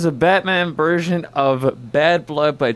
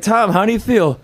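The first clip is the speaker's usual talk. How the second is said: interviewer voice; 9 semitones higher, 4 dB louder than usual. Retold or imitated. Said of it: "He's like".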